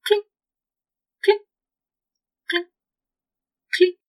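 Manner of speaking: short, high, evenly spaced clinks; imitated clinking. A narrator's reading. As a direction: mimic a distant clink, leaving long pauses. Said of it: "you hear a distinct".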